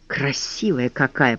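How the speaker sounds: soft slow whisper. A narrator's reading. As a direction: breathe it out in awe. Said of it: "прошептал Ластик".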